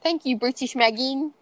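mock posh British accent, laughing. Host thanking her co-host in a joke British accent. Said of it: "We love British Katie".

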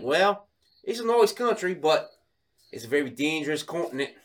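lightly put-on Aussie local; Australian accent. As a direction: talk up home in a mock Australian accent. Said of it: "Are you from Australia?".

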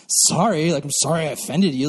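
grudging mock sorry; dismissive, lightly acted non-apology; jerky apology. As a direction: apologize while meaning none of it. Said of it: "I can be a real jerk".

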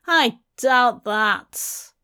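slow words through gritted teeth; through his teeth. Acted. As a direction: hiss it through clenched teeth. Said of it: "through his teeth".

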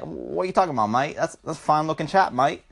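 lightly put-on Aussie accent; casual mock Australian. Podcaster imagines the kid as an Australian talking, light Australian accent. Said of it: "but in like, Australian".

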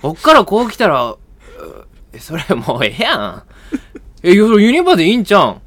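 pushy, high Osaka-dialect retort; mock a brusque Osaka partner; loud Osaka comeback, rushing at the end; rough Osaka dialect. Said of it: "口悪い大阪弁みたいな".

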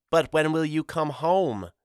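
put-on high, tearful-child plea; crying out. A narrator's reading. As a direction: cry it out as a small boy begging his father. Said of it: "Pip cried".

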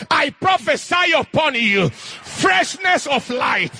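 preacher declaring a prophecy slowly; slow prophetic proclamation. Acted. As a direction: pronounce a blessing over the crowd. Prophesying over congregation.

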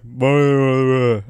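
low garbled Irish mumble; mock Irish accent. Imitating Irish guys saying their hometown, garbled mock Irish accent. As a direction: slur the sounds into unintelligible Irish. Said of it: "they're like".

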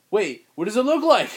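high, loud prying mother; curious mom voice. Retold or imitated. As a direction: pester him like a nosy mom. Mom questioning son about bike.

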